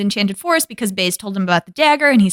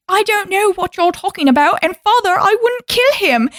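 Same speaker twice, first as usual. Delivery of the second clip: high mock innocence; 8 semitones higher than usual. Retelling Belle's denial.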